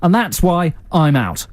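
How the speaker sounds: lightly acted investor bowing out; dragon's sign-off. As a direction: deliver a hammed-up final rejection, slowly. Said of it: "That's what you say at the end".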